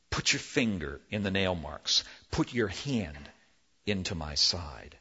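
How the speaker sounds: quietly inviting the doubter in; Jesus gently inviting Thomas to touch him; gracious invitation. Acted. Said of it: "Jesus graciously appears again".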